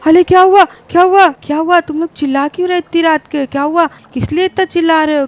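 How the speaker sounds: jolted awake by screaming; startled asking. Acted. Mother woken, startled. (नींद से घबराकर पूछते हुए)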